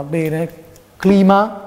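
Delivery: theatrical TV quiz host; showy game show host. Pretend. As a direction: build suspense like a TV host.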